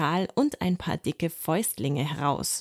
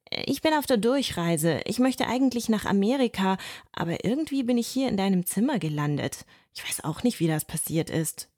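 higher, chatty little mouse, a bit puzzled; light, higher voice for a friendly mouse; 3 semitones higher than usual. Acted. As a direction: play the cheerful globetrotting mouse. Mouse Hannibal speaks, voiced.

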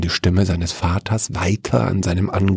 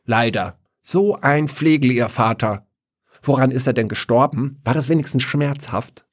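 put-on peevish old lady; 5 semitones higher than usual. Old woman speaks again.

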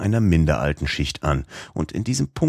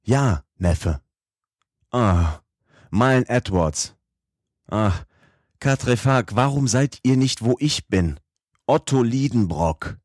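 put-on excited old professor; 6 semitones higher, slower than usual. Professor exclaims over fossil skull.

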